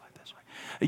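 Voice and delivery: unvoiced whisper, very soft; demonstrated whisper. Shown as a demonstration. Preacher shows a whisper can't reach the back of the room, whispered. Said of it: "but if I'm like, "Whisper".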